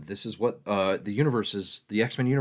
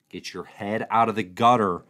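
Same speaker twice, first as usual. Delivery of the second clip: louder, stressing "out" in mock reproach; playful louder rebuke; louder mock scold; 6 dB louder than usual.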